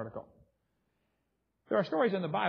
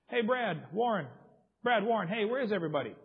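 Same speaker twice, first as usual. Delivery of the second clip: calling out names, a bit higher, mock yell; retold yell; 4 semitones higher, 3 dB louder than usual. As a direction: call for the lost friends in a mild mock yell. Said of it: "I yelled back at the top of my lungs".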